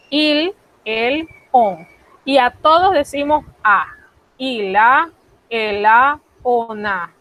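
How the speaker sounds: Ila, ela, ona run together as one word; linked French il a. Shown as a demonstration. Teacher demonstrating il a, elle a, on a linked. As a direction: glue pronoun and a together. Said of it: "al decirlo rápido van como pegados".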